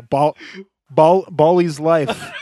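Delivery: slow laughing attempt at an Israeli accent; drawn-out ball in a rough Israeli accent. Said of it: "I tried to do that in an Israeli accent".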